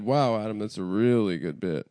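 sarcastic praise; mock sincere compliment. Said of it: "your sarcastic voice".

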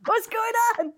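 a hammed-up flirty hello, high and laughing; mock sexy voice note. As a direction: playfully put on a seductive greeting. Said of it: "what would your voice note be".

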